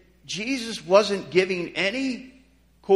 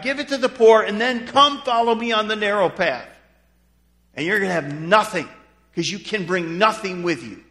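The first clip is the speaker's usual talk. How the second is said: forceful preaching; 6 dB louder than usual. Retold or imitated. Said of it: "And he was saying".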